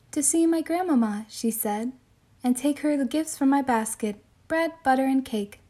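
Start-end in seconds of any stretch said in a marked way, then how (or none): 0.1-1.3 put-on girl's voice. Girl's voice in read story. 2.4-5.6 put-on girl's voice. Girl's voice in read story.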